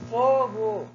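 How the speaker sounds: high, drawn-out cry of fire; shouted exclamation. Shown as a demonstration. Teacher demonstrating the exclamation mark, shouted exclamation. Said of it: "eu gritei".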